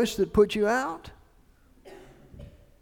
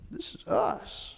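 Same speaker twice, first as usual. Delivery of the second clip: breathy hushed whisper, slow; 9 dB quieter, slower than usual. Acted. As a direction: let it drop to a slow secret whisper. Preacher voicing listeners' realization.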